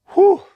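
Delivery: loud high whew of relief; whistling whew of relief; high relieved whew. Real, not acted. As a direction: blow it out in disbelief. Relief exhale after group.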